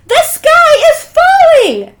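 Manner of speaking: high, slow, shouted wail of panic; a frightened little hen's shriek; panicked cry. Acted. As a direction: cry it out like the sky is truly falling. Chicken Little panics in story.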